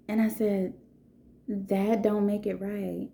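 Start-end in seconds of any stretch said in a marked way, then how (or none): 1.5-3.1 quiet firm correction. Retold or imitated. Teacher gently corrects girl.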